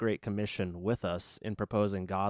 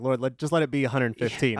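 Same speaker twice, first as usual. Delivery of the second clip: begging; 3 semitones higher than usual. Retold or imitated. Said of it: "I'm almost begging".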